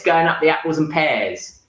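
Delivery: demonstrating a Cockney accent. Shown as a demonstration. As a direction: put on a South East London Cockney voice. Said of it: "they kinda talk a bit like this".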